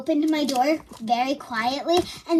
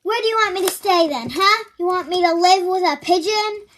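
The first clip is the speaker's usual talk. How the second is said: sassy comeback; 4 semitones higher, 4 dB louder, faster than usual. Retold or imitated. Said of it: "and I was like".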